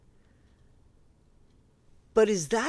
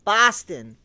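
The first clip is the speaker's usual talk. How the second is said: Boston accent; 4 dB louder than usual. Shown as a demonstration. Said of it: "There you go".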